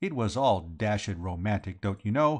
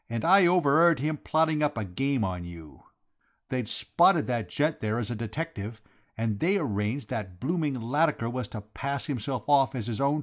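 raised, indignant working man's voice; Vowles, aggrieved accuser; 4 semitones higher, 4 dB louder than usual. Acted. Vowles exposing George's game to the company, indignant. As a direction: denounce him with emphatic grievance.

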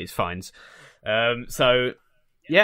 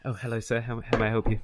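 softer, lowered library voice; hushed librarian; 3 semitones lower, 5 dB quieter than usual. Acted. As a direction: greet a visitor quietly in a library. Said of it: "sorry, I'm not whispering".

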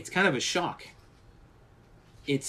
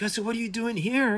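put-on higher, curious old-man voice; lightly put-on voice, raised pitch; imitating Harryhausen; 10 semitones higher than usual. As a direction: ask it like a kindly visitor. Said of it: "he's like".

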